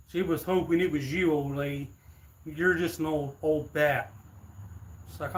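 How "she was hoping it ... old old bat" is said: put-on taunting frat boy. Frat boy taunting old neighbor.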